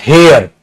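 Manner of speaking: हेयर begun with an audible h; H sounded at the start. Shown as a demonstration. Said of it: "ह से". (हेयर को साफ़ "ह" से शुरू करके)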